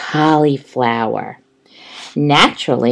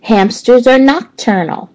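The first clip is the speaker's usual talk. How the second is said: squeaky hamster; 8 semitones higher than usual. Acted. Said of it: "I squeaked".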